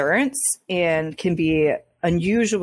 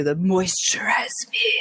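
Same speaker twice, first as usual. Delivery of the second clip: Doctor Who moisturize me. Retold or imitated. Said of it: "the Doctor Who".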